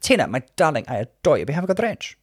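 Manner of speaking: lightly voiced grand diva; a hint of a suave old star; a classic diva singer's voice. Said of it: "she did".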